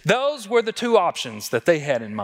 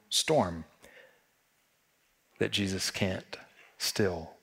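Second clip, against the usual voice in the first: whisper; 8 semitones lower, 8 dB quieter, slower than usual. Real, not acted. Sermon climax, hushed assurance.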